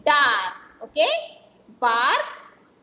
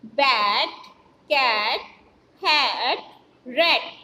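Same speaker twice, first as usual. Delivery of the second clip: each word read whole, crisp and a bit louder; whole-word reading demo; 3 semitones lower, 4 dB louder, slower than usual. Shown as a demonstration. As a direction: say each word cleanly as one unit, one by one. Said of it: "आप इसे ऐसे पढ़ेंगे".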